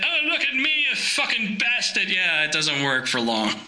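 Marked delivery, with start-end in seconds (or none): 0.0-2.1 high-pitched mock-Scottish outburst; exaggerated, shaky attempt at Scottish accent. Shown as a demonstration. Showing an accent that won't hold, hammed-up Scottish. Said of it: "try to do a Scottish accent".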